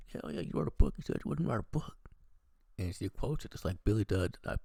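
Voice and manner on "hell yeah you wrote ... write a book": mock angry retort. Tara snapping at Gale about the book, high indignant retort. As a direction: fire it back as an accusation.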